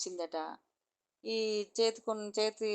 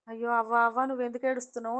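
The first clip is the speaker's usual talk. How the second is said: puzzled, slightly raised-pitch appeal; mild dismay; 3 semitones higher than usual. Acted. Young man asks the old woman who grabbed him why she cries, mildly dismayed.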